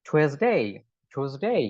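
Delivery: "Tuesday" with a gliding final dei; correct pronunciation. Shown as a demonstration. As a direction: end "Tuesday" on a full ei diphthong. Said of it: "সবগুলা ডেতেই এরকম হবে".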